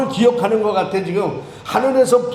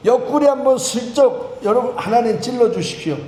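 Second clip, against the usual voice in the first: mock prayer; 2 semitones higher than usual. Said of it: "이런 기도하고 싶을 마음이요".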